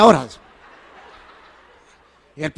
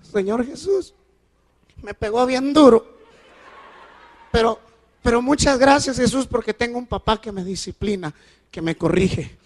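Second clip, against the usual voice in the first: put-on child's prayer; 3 semitones higher than usual. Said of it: "Ore usted por mí".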